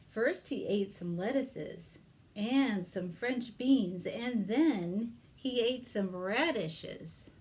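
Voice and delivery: lively read-aloud for little ones; story narration. Acted. Librarian reads Peter Rabbit to children, storytelling voice. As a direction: tell it like a picture-book reading.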